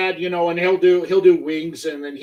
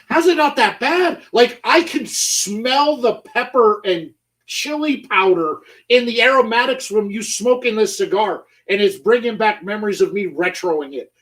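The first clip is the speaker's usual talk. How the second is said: higher, incredulous retold reply; mock disbelief; 5 semitones higher than usual. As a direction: play up your shock at him. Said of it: "I'm like".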